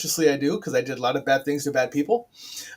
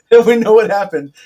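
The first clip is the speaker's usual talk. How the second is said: laughing as she repeats the punchline; laughing echo of a joke; 6 semitones higher, 11 dB louder than usual. Real, not acted. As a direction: say it through real laughter.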